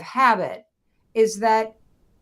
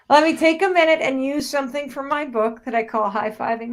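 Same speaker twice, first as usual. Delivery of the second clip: overwhelmed; 6 semitones higher, 5 dB louder than usual. Real, not acted. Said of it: "I'm just feeling very overwhelmed".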